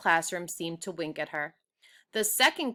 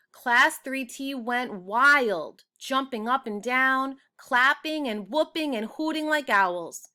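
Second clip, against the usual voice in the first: excited narration; 6 semitones higher, 4 dB louder than usual. A narrator's reading. Narrator sharing the class celebration, loud and excited. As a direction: tell it like the room is cheering.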